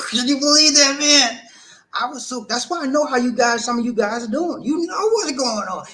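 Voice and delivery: high laughing squeal; helpless laughter. Real, not acted. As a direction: talk through a rising laugh. Laughing at his own folly.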